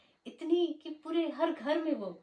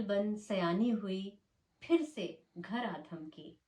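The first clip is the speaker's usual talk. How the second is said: measured Hindi poetry reading with swinging intonation; poem recitation. Acted. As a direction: recite it line by line, leaning on key words, with pauses. (लय और ठहराव के साथ कविता पाठ)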